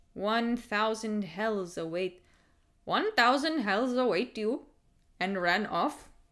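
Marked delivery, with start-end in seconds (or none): 0.2-4.6 put-on heavy, thick Indian accent laid on throughout. Retelling what a man on a Toronto train said before running off; thick Indian accent. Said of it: "in his thick Indian accent".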